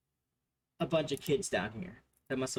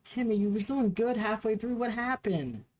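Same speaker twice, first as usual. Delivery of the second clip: gently disappointed teacher; 9 semitones higher, 3 dB louder than usual. Acted. GM voices the half-elf teacher.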